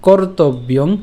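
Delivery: slow, measured shloka phrase; verse recitation. Shown as a demonstration. Teacher repeating from the start, slow recitation. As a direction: recite deliberately, each word apart. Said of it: "আবার প্রথম থেকে বলি".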